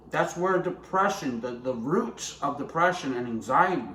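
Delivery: talking with food in mouth; words round a bite of food; mouth full. Real, not acted. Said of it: "Sorry for speaking my mouthful".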